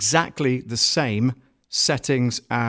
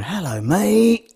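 drawn-out, high Cockney greeting; hammed-up Cockney, slow and higher; Cockney accent; 7 semitones higher, much slower than usual. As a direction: put on a swooping Cockney voice. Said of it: "in his usual Cockney accent".

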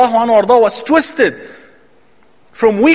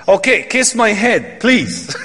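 mock begging through a chuckle; laughing pleading king; slower than usual. King begging the companion to kiss his head, laughing.

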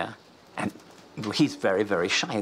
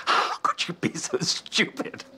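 slow, whispery self-scolding; hushed, anguished retelling of self-blame; mock self-reproach; 6 semitones higher, slower than usual. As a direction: berate yourself under your breath, drawn out. Retold self-scolding after missed chance.

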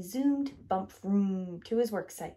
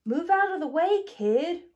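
much higher and louder angry roar; 8 semitones higher, 7 dB louder than usual. A narrator's reading. Roller truck roaring at bulldozer to move. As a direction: order the kid aside. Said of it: "roared Roller".

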